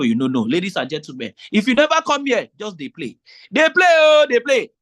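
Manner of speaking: market emcee hyping a vendor's stand; razzmatazz hype announcer. Shown as a demonstration. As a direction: work the crowd with sass and panache. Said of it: "all of that razzmatazz".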